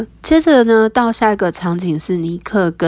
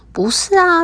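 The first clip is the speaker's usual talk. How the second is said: exasperated; 11 semitones higher than usual. Acted. Nick exasperated.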